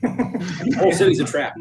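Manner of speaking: high-pitched in-character holler; yelling back. Acted. Player's character warns Dieter of the trap, yelling back. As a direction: call out a panicky warning, half in jest. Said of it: "I'd yell back at Dieter".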